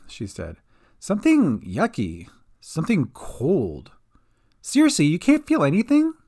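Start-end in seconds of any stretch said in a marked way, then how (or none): 1.0-3.9 spooked and hushed; uneasy whisper. A narrator's reading. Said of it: "Kat shuddered". 4.6-6.1 incredulous. A narrator's reading. Kat pressing, alarmed.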